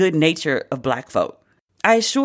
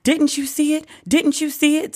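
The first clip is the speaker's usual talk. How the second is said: mock Karen; 9 semitones higher than usual. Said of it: "was like".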